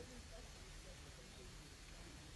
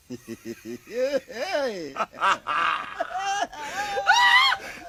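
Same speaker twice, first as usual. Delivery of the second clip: long, high, loud cackle; wild gleeful laughter; 10 dB louder than usual. Acted. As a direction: shriek with laughter at the news. Delight at marriage news.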